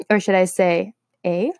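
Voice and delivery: playful Canadian "eh"; lightly mock Canadian twang; Canadian accent. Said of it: "To all my Canadians there".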